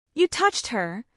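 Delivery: "You touched her" with every word hit evenly; measured, word-by-word accusation; each word stressed. A narrator's reading. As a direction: land each word separately, cold and deliberate. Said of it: "emphasizing each word".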